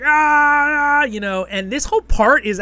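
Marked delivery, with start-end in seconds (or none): 0.0-1.0 high, loud mock war cry of charging riders; battle cry. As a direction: yell like soldiers charging in. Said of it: "They're like".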